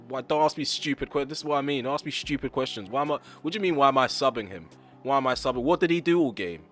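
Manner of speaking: mock angry manager. Pretend manager snapping at a reporter's stupid questions. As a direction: play the prickly boss in a press room.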